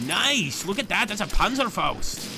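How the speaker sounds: high, loud excited cheer; real excitement. Real, not acted. Streamer cheers as his unit scores a hit. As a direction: cheer the big hit like a gamer.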